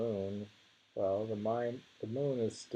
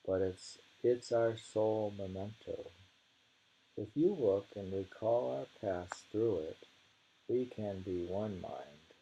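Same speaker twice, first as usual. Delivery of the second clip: poem reading. Acted. Reading a monk's poem to a friend, measured. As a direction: read the verse with care.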